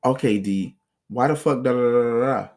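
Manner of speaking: acting out her yelling at him; imitating her yelling. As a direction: girlfriend yelling at him over nothing, mock angry. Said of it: "let me show you this".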